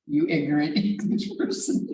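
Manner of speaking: mock insult broken by a laugh; amused retelling. Retelling Greek student's comeback to English teacher, laughing. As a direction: laugh midway through the retold comeback.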